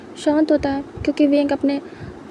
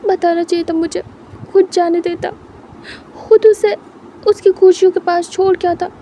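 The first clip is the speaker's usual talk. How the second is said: higher, pressed, near-tearful protest; upset, tearful; 4 semitones higher than usual. Acted. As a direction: plead through the tears. Lan Jan crying, defending himself.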